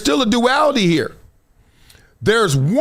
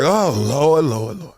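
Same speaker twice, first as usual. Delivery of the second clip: mild pleading; 4 semitones lower, slower than usual. Retold or imitated. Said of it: "I was like".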